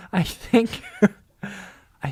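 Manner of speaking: laughing. Real, not acted. Laughing at the silly question.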